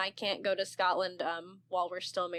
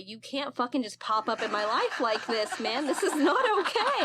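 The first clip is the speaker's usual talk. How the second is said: mock flustered protest; 5 semitones higher, 3 dB louder than usual. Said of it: "I was like".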